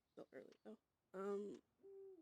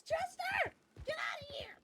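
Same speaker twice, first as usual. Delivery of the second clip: raised, higher pretend shoo; play-acted outburst, pitched up; mock yelling; 13 semitones higher, 4 dB quieter than usual. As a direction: yell as if chasing someone off. Mock yelling at imagined Chester.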